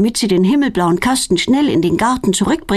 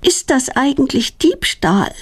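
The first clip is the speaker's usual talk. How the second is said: high, slow, worried asking; a girl's fearful question; anxious question; 7 semitones higher, slower than usual. A narrator's reading. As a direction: afraid of being caught. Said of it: "fragt Claudia ängstlich".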